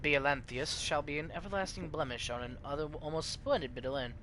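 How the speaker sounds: put-on grand old-world narrator setting the scene; epic lore narration. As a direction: read it like an ancient chronicle. GM reads epic intro lore.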